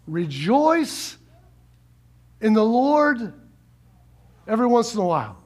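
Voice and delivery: deadpan wrong ending for laughs; joking misquote of scripture; mock misquote. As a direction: slip in the wrong words on purpose. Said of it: "Oh, we don't have it up there".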